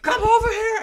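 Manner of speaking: high-pitched mock yell, laughing; retold yelling. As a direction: imitate a teacher yelling, voice jumping way up. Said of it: "when she yelled, bro".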